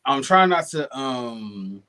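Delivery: a little tipsy and giggly. Real, not acted. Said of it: "I'm a little tipsy".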